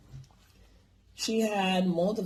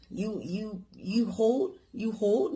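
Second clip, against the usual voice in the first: higher questioning broken English, mock Chinese accent; a touch of a mock Chinese accent; imitated Chinese accent; 4 semitones higher, slower than usual. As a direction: shop lady urging in a Chinese accent. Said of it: "talking in fucking broken English".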